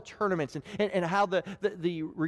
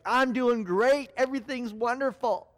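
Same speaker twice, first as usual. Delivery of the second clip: fake cheer; 5 semitones higher than usual. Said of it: "your happy mask".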